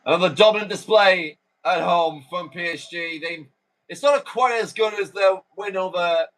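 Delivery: measured full-time commentator summary; play-by-play commentary. Acted. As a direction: wrap up the match for TV viewers. Live commentary summing up match.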